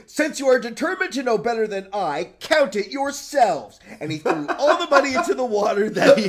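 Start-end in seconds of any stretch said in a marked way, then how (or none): 0.1-3.8 angry peasant, voice raised. Acted. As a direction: tell them off in anger. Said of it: "quite angry".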